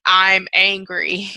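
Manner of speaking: mock angry declaration, drawn out; lightly played anger; acted anger. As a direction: claim the feeling with slow emphasis. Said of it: "you start saying".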